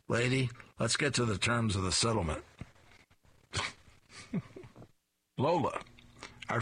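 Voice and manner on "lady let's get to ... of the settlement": disguised voice. Acted. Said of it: "in a disguised voice".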